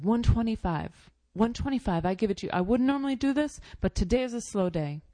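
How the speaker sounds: desperate shopkeeper. Retold or imitated. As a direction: push the last-ditch discount. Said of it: "and he said".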